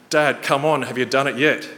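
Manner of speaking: a hint of a child nagging, come on dad; impatient kids. Sons nagging dad from the stairs, lightly voiced impatient kids.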